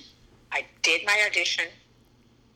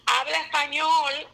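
mother's command; 6 semitones higher than usual. Retold or imitated. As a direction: play the mom insisting on Spanish. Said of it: "cuando tu madre te diga".

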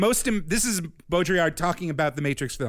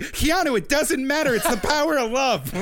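mocking the Wachowskis; 10 semitones higher than usual. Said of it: "they're just like".

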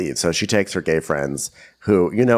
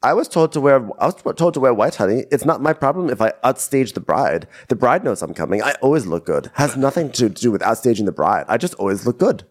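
imitating Chanel; 3 semitones higher than usual. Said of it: "So then Chanel tells us".

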